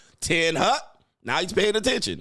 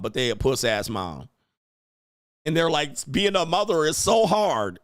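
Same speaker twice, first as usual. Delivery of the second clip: normal talking voice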